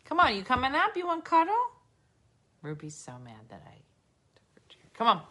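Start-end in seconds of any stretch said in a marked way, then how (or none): 0.1-1.5 high coaxing pet talk. Real, not acted. Inviting the dog onto her lap, coaxing baby talk. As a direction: coax the dog up sweetly, much higher.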